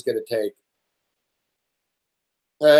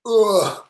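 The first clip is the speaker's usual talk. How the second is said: exasperated groan; 6 semitones higher than usual. Real, not acted. Venting after the doorman argument.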